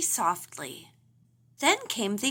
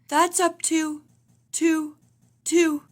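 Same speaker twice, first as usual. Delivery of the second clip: about to sneeze; 6 semitones higher, 4 dB louder than usual. A narrator's reading. Papa stammers before sneezing.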